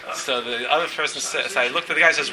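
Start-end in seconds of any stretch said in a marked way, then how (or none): 0.0-0.1 raised, high-pitched mock yell of triumph; excited retold scream. Man bursts out of the court case, excited mock screaming. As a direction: imitate a man yelling out his win. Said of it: "he's screaming".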